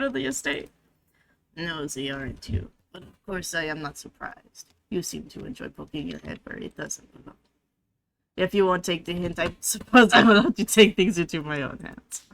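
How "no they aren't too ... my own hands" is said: mock French accent. Player voicing the cat dismissing the dead aunt in a French accent. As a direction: purr it out like a snobbish French feline. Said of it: "this fucking accent".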